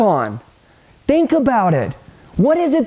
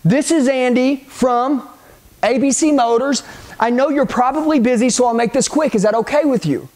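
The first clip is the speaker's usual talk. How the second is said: script laid out phrase by phrase, with pauses; deliberate script line. Shown as a demonstration. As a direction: show the line piece by piece. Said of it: "which is gonna be this".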